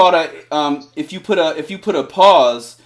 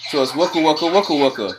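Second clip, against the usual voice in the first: vocal scratch rhythm. Shown as a demonstration. DJ showing the student the scratch rhythm, chanting it. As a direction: chant "waka waka waka waka" as an even scratch beat. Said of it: "But start off slower".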